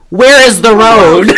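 slow, breathy helpless housewife; mock sixties wife. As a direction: play the clueless fifties wife. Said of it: "this astute observation she made".

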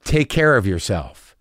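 low, slow send-off; loaded tone. Retold or imitated. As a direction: draw it out low, like veiled bad news. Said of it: "Did you hear my tone just then?".

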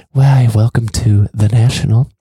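loud, wet, mock-posh news anchor greeting; public broadcaster voice. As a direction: ham up a news anchor's welcome. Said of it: "it's like the public broadcaster voice".

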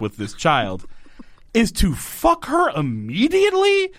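high, slowed, indignant questioning; outraged. Real, not acted. Host berating the dad for sleeping with her, outraged and high. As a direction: spell out the father's awful choice in disbelief.

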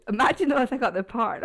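ordinary talk

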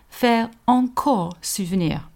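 slow, breathy whisper lingering on encore. Acted. Narrator whispering Henry's French words to the listener. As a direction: savour each French word in a hush.

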